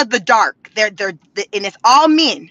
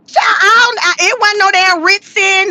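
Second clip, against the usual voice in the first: exasperated cry; 5 semitones higher than usual. Real, not acted. Exasperated outburst at the town.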